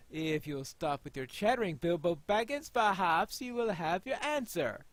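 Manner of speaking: mildly stern, rising at the end; lightly chiding elder. Acted. Player voicing an elder scolding Bilbo, mild sternness. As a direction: scold Bilbo gently, then point out the smith.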